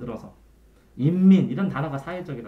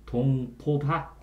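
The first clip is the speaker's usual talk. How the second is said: slow mnemonic; 2 semitones lower, much slower than usual. Shown as a demonstration. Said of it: "이렇게 외우든지".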